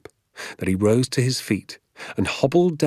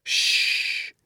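hushing. Acted. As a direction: hush him quickly. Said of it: "he said".

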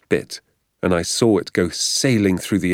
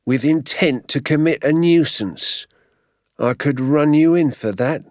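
menacing keeper; 9 semitones higher, 4 dB louder than usual. Acted. Keeper threatens arrest.

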